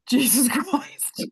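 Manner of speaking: slow, amazed laugh through the words; stunned laugh. Retold or imitated. Holding the priest's crucifix, a slow stunned laughing oath. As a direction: breathe it out in disbelief, laughing.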